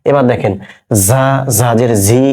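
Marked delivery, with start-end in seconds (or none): 1.1-2.2 "জা" with a long buzzing z, slowly; slow teacher's demo of z in "জা"; careful Arabic za. Shown as a demonstration. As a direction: say "জা" and "জি" with a buzzed z, never a j. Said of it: "জা উচ্চারণ কিন্তু যা করবেন না".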